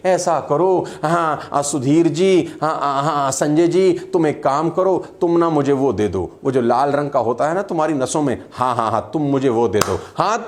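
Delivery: mock half-hearted leader hemming and hawing; slack, hesitant speech. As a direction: ramble loosely, as if unsure of the promise. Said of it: "बहुत ढीला ढाला बोल रहे होते". (ढीला-ढाला, हिचकता हुआ अंदाज़)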